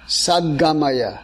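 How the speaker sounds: slow, one word at a time. Shown as a demonstration. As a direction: break it into slow single chunks. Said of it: "one word at a time".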